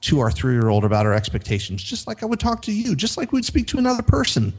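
imitating a gushing friend. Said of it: "her friend told her".

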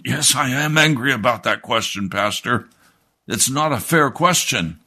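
high-pitched mock indignation, pitched well up; hammed-up huffy church lady; retold angry reply. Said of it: "she began to scream at me".

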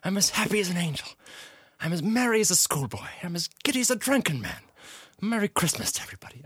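high, excited theatrical delight; giddy Scrooge. Acted. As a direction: bubble over with joy in a high voice. Plays Scrooge.

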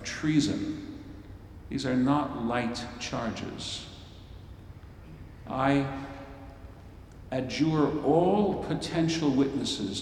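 a hint of a judge opening court; solemn high priest. High priest addressing the court, measured and solemn. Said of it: "He says".

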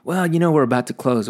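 high, loud whiny clerk voice; mocking the clerk. Mimicking the closing-time clerk, loud and mocking. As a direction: mimic the employee's snotty tone. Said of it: "then he was like".

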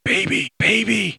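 put-on high coaxing voice to a baby; cooing baby talk. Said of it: "while Germaine was doing".

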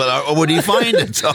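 normal talking voice

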